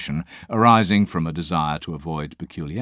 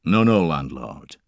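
strong Scottish voice; 5 dB louder than usual. Acted. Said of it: "answered a strong, deep voice".

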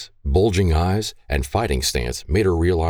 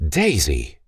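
condemning. Acted. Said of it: "her voice condemned".

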